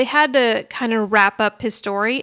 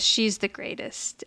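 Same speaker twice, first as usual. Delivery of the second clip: soft tender; 5 dB quieter, slower than usual. Retold or imitated. Tony says it tenderly.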